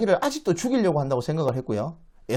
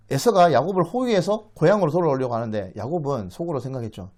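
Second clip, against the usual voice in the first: ordinary delivery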